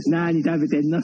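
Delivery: badly faked senior performer impression, too husky; thick-voiced, poor impression; 小雪師匠. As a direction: lightly imitate a drawn-out question, unconvincingly. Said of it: "のぶといからね、小雪師匠にしては".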